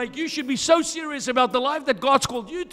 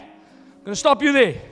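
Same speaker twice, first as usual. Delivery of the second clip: louder, firm stop-right-there; firm warning; 4 dB louder than usual. Retold or imitated. Son warning his critical dad, louder and firm. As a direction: cut the father off, louder and firm. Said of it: "My dad".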